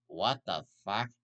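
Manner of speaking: a light cartoon one-eyed monster voice, a little slow; hammed-up cartoon monster cursing in mock shock; a hint of a cartoon monster, slow and mock-startled; Mike Wazowski impression. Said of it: "That was my best Mike Wazowski impression".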